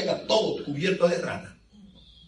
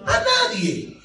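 high laughing exclamation; a laughing, much higher "a nadie"; laughing answer. Real, not acted. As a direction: laugh it out, nobody would.

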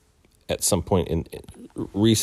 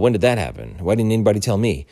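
mild, indignant mock demand; a touch of outraged accusation; imitating anger; 5 semitones higher, 4 dB louder than usual. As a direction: retell his angry questioning, slightly raised. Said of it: "he gets angry".

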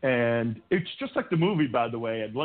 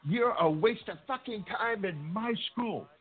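imitating angry principal; 9 semitones higher than usual. Principal insulting him.

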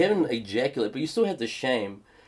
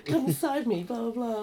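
mock seductive whisper; 10 semitones higher, 4 dB quieter than usual. Ex acts seductive.

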